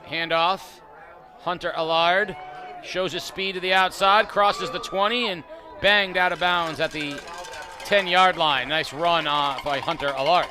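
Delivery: brisk live football call; radio football announcer calling the play. Real, not acted. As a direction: call the run as it happens.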